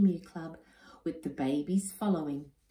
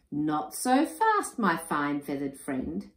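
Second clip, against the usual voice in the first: teasing wife; slower than usual. Acted. Wife teasing her husband, slow and arch. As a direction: hold him off playfully. Wilhelmina teases Enoch.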